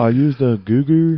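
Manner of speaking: put-on high, loud caricatured Asian accent; mock Asian accent. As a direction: put on a silly Asian accent to get a laugh. Mocking the foreign student's speech.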